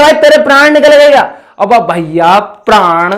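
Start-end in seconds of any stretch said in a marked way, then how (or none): 0.0-1.2 higher and louder, teasing the friend with भाई; mock exclaim. Teacher acting out a friend's teasing question, mock exclaim. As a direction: toss it out like a jokey taunt. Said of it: "कि बोले".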